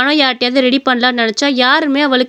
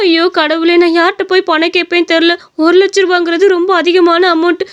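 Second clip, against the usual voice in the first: higher-pitched, mildly dismayed protest; distressed daughter; 5 semitones higher than usual. Acted. Daughter learns her mother needs money, acted distress. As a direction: fret aloud, pitch lifted.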